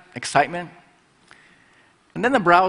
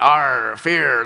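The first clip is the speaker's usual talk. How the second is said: pirate growl; 4 dB louder than usual. Retold or imitated. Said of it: "like Captain Jack Sparrow typeface".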